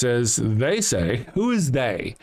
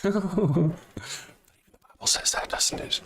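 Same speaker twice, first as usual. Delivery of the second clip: laughing; 7 semitones higher, 4 dB quieter, much slower than usual. Real, not acted. Laughing aside.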